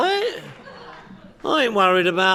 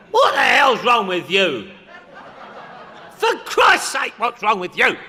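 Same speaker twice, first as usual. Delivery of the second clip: mock exasperated yelling. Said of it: "anybody ever hear anybody say".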